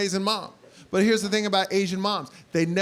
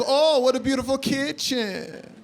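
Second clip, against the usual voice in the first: snide Asian mom; 4 semitones higher, 4 dB louder, slower than usual. Retold or imitated. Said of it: "my mom walks into our new house and goes".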